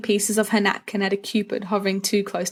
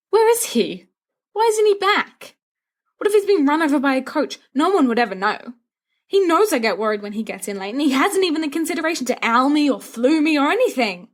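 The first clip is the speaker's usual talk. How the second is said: mock panic; 7 semitones higher, 3 dB louder than usual. A narrator's reading. Sirius frets about James.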